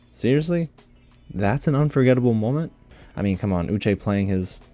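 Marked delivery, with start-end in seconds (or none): 0.1-2.7 seriously? pitched high in disbelief; scoffing at a so-called unforgettable moment; incredulous seriously. Real, not acted. Reacting to the reunion makeover, incredulous.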